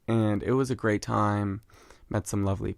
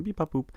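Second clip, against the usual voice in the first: high little button beeps; imitated machine beeps; 7 semitones higher, 3 dB quieter than usual. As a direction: mimic punching keys with beeps. Imitates clocking in at work.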